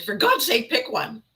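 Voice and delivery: fed up with your own indecision; exasperated self-scolding. Acted. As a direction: scold yourself impatiently for dithering. Acts out scolding own dithering.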